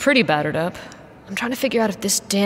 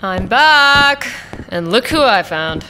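calling out; 3 semitones higher, 4 dB louder, slower than usual. Acted. Calling out on arriving at camp.

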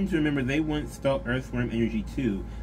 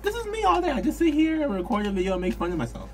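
talking through high giggles; can't stop laughing mid-sentence; 12 semitones higher, 3 dB louder than usual. Real, not acted.

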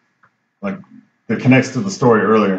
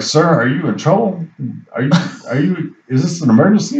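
higher, halting mock-concerned questions; concerned questioning; 4 semitones higher than usual. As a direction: imitate a puzzled official checking for trouble. Acted firefighters questioning a rambling visitor.

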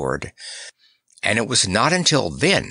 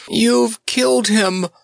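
angry wail; 11 semitones higher, 3 dB louder than usual. Acted. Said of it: "wailed Nick angrily".

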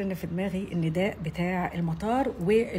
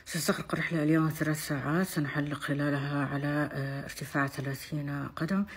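pilot announcement. Shown as a demonstration. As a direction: address the cabin as the captain. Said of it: "يلا بينا الكابتن".

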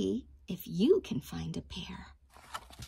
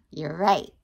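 mock surprise; 4 semitones lower, 7 dB louder than usual. Teacher praises children with mock surprise. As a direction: gasp of delight.

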